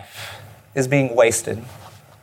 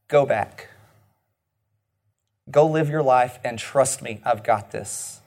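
reassuring God voice; 4 semitones lower than usual. Acted.

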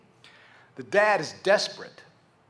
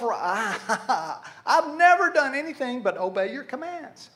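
slow, higher-pitched self-righteous boast; 5 semitones higher than usual. Acted. Good kid boasting to his father, mock self-righteous. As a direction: draw it out, hammed-up and righteous. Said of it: "I'm self".

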